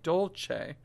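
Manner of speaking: dolce with C as "ch"; soft C sound. Shown as a demonstration. Teacher explains the spelling to pupils, dolce with "ch". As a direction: say dolce as "dol-chay". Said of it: "you get a C H kind of sound".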